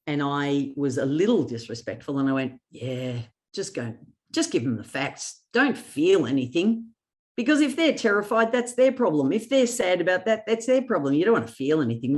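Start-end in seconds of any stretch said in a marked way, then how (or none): 2.7-12.2 sarcastic, pitched up on the problem lines; mock sarcastic advice. To a retiring boss, mock sarcastic advice. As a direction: tease him by pretending coldness is best. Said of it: "ever so slightly ca-, sarcastic".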